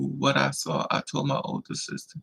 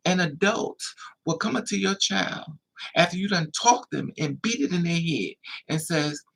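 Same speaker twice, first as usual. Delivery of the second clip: usual speaking voice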